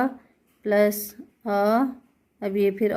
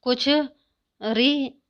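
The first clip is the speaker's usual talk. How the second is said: very slow, stretched री, pitched up; drawn-out teaching; 3 semitones higher, much slower than usual. Shown as a demonstration. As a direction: stretch री out slowly like spelling it on the board. Teacher drawing out the letter.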